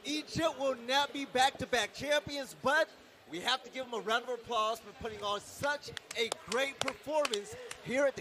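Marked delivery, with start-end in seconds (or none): 0.0-2.9 excited shout. Real, not acted. Result announced, caster still shouting.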